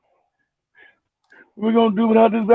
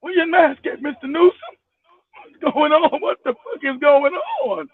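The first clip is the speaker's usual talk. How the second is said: mock confronting voice; 6 semitones higher than usual. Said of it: "retold mask challenge".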